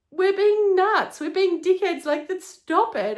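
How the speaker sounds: high, loud goofy voice; silly ogre voice. Retold or imitated. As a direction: keep the ogre voice while calling it off. Retold line in ogre mood.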